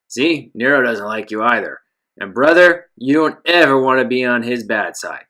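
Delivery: low, gravelly thug voice. Acted. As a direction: menace it out like a heavy. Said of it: "a deep, gravelly voice".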